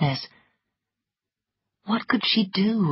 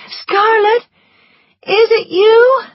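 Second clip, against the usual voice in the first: weak voice; 7 dB louder than usual. A narrator's reading. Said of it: "Melanie's weak voice".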